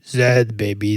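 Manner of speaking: low whispered tough-guy answer. Retold or imitated. Boyfriend whispering the answer to his girlfriend. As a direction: breathe it out as a cool secret. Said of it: "That's, that's Pulp Fiction".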